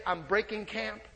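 soft, determined vow; quiet resolve. Pretend. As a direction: say it like a private promise to God. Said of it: "You and I need to make a choice today".

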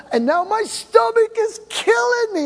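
put-on high, pained whining young man; Jack in pain. Jack telling the pastor his stomach hurts, pained. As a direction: squeal out the pain, half-joking.

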